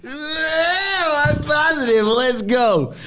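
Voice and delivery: high mock Italian-American accent; Nunzio impression. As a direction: answer sure as a boss. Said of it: "Nunzio says".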